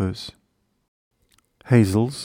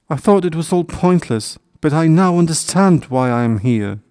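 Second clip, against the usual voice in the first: raised, emphatic, lightly emotional; tearful joy; 6 semitones higher, 3 dB louder than usual. A narrator's reading. Hedgehog tells his family he understands, mildly tearful relief. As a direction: pour it out with a touch of happy sobbing. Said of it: "sobbed the hedgehog".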